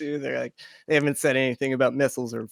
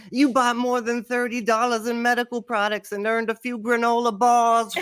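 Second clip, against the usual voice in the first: high mock announcement; announcer voice; 9 semitones higher than usual. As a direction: read it like a store prize call. Mock receipt award read.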